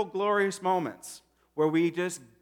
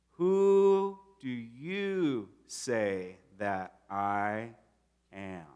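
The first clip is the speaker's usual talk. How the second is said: probing question; 5 semitones lower, much slower than usual. Acted. Jesus asking disciples.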